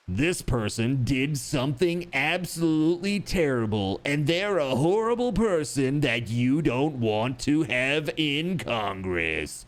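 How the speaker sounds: slow, ominous political ad read; lightly mocking attack-ad announcer. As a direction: narrate it like a smear campaign. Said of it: "there's always like".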